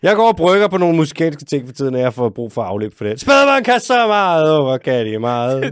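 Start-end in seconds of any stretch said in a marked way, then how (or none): 3.2-5.7 loud yelling straight into the microphone. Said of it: "når du bare sidder og råber ind i den".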